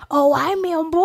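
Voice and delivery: high squeaky berry voice; tiny high cartoon fruit; Member Berries voice. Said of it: "member berries".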